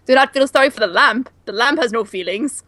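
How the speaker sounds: a hint of a bad Swedish accent. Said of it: "that was a horrible Swedish accent".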